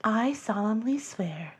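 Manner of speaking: hushed mock vow, barely voiced; solemn whisper. Host whispering a mock vow to stop accents, hushed. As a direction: whisper it like a sacred oath. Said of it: "It's not like this is a moment where I'm like".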